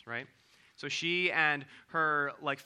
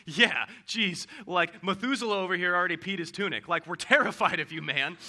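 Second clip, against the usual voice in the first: put-on scared shepherd kid; 6 dB louder than usual. Shepherds answer the angel.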